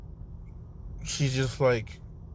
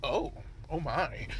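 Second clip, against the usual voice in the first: overwhelmed moan; 9 dB quieter than usual. Acted. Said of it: "Naruto's just like".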